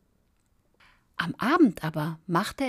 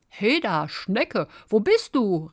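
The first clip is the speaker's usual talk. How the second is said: raised, searching call; 4 semitones higher, 5 dB louder than usual. A narrator's reading. Fox looking round for the snail, calling out. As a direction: call for someone you can't find. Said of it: "rief er".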